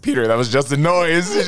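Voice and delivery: Lois voice. Retold or imitated. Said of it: "She tells him".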